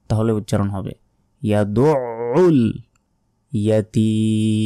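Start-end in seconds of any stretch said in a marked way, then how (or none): 1.4-4.7 ইয়াদুউল slow, with a pressed throaty ain; correct way. Shown as a demonstration. Teacher shows the correct form after the mistake. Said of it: "চাপ দিয়ে উচ্চারণ করবেন".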